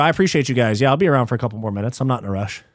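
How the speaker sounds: normal talking voice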